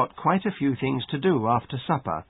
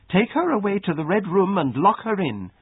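high-pitched, commanding outburst; stern order; 8 semitones higher, 3 dB louder than usual. A narrator's reading. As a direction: order the punishment in a raised voice. Mistress orders girl locked away.

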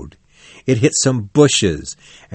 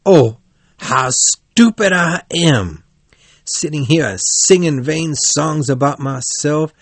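dismayed cry; 5 semitones higher than usual. A narrator's reading. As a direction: wail mildly at your own folly. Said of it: "Toad cried".

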